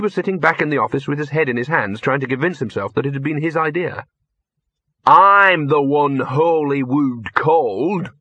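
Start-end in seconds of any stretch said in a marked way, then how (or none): 5.1-8.1 slow, loud wounded whine; self-pitying. Acted. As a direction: play the wronged victim, slowly. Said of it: "muttered in a self-pitying voice".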